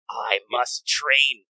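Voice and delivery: very slow, weighty hero's declaration; mock-solemn resolve, each word drawn out; Karna. Hero in timeless space resolving to train, mock solemn.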